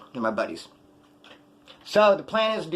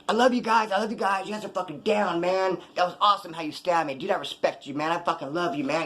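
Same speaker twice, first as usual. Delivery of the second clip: higher-pitched mock gushing love; gushing affection; 3 semitones higher than usual. Hugging the roommates who stabbed him, gushing. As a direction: gush like an overfriendly drunk buddy.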